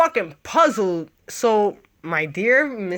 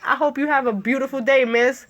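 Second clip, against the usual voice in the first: sarcastic nice. Retold or imitated. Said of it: "But I said it in a nice way".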